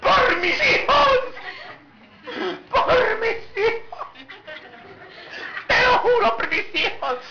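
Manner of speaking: very high, drawn-out mock cry; hammed-up shrieked swearing, stretched slow; dramatic oath. Dramatic person swearing on their children, mock shrieking. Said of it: "Todos dramáticos así".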